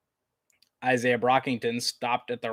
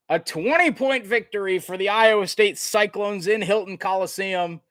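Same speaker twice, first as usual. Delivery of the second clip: raised, ringing end-of-game call; big sportscaster sign-off at the buzzer; excited play-by-play; 6 semitones higher, 4 dB louder than usual. Real, not acted. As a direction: announce the victory to the whole arena. Calls the final seconds of win.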